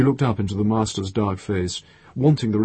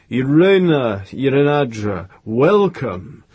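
voiced glad welcome, slightly raised; open gladness; 4 semitones higher, 6 dB louder, slower than usual. A narrator's reading. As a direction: greet a longed-for guest with open gladness. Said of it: "with open gladness".

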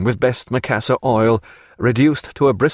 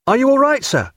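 loud, high cry of concern; anxious high shout; 3 dB louder than usual. A narrator's reading. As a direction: call out urgently, pitched well up. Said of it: "cried Babington again".

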